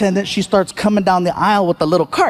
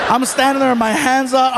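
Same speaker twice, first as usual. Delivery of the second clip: ordinary talk, nothing marked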